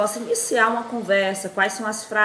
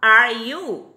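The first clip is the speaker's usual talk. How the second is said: How are you said very slowly and louder; emphatic, slow classroom model; slow teaching demo; 3 semitones higher, 7 dB louder, much slower than usual. Shown as a demonstration. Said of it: "Mas não fala aquele R".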